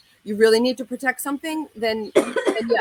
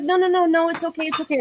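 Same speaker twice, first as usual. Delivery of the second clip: higher and louder frantic no, no, no; friend pleading; 9 semitones higher, 4 dB louder than usual. Retold or imitated. Girlfriend at red light begging her not to react, high frantic pleading. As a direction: beg her to stay in the car. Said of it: "She's like".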